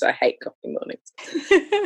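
high, drawn-out whine on "I hate coffee mornings"; mock dramatic groan. Shown as a demonstration. Repeating her complaint to the podcast host as a mock whine.

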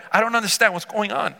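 lightly acted bewilderment, pitch jumping up; shocked confusion. Woman questioning Jesus's offer of water, confused. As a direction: puzzle it out aloud as the confused woman. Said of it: "Now she's shocked and confused".

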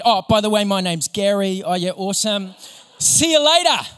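high, loud, rushed excited churchgoer; eager friend blurting out a miracle; excited retelling. Retold or imitated. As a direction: burst in bubbling over with good news. Excited Gary bursts in, retold.

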